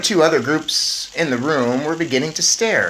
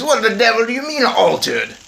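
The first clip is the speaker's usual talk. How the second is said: mild mock shout; 10 semitones higher, 6 dB louder than usual. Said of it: "shouted Mister Jenkins".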